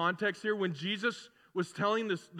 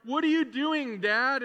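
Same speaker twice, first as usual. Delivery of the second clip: higher, louder call to the porch; mom calling out; 6 semitones higher, 5 dB louder than usual. Retold or imitated. Mom calling to dad on the porch, higher and louder.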